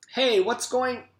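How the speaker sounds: put-on loud kid's call cut off; boy calling out. A narrator's reading. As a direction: call out to the class. Todd shouts.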